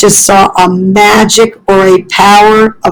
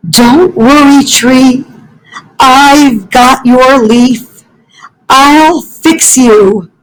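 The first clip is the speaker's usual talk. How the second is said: higher, slower, soothing little-animal voice; Fletcher the gentle fox; 4 semitones higher than usual. Acted. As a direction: comfort the tree like a kind child.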